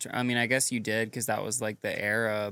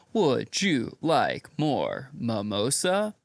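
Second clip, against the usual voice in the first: robotic flight attendant voice; much slower than usual. Retold or imitated. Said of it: "they're just like".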